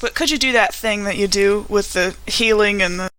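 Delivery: wounded but polite, asking for help; Grace in character. Acted. Hurt woman asks a companion for healing, lightly voiced.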